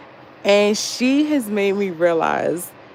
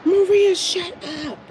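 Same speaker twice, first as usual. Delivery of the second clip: calling out; 12 semitones higher than usual. Real, not acted. Calling out to a viewer in chat, high and teasing. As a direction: call her out, half laughing.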